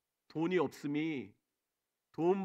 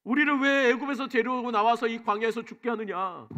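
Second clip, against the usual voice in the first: higher, louder accusing challenge, building to the end; angry demand; 6 semitones higher, 7 dB louder than usual. Retold or imitated. The Israelites confront Moses over missing water, loud angry challenge. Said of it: "이렇게 따져 묻어- 물어요".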